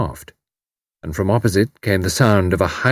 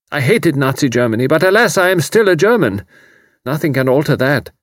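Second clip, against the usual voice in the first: put-on higher, strained young refugee; anguished young German; 5 semitones higher than usual. A narrator's reading. Refugee confiding in Tuppence, anguished. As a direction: plead to be understood.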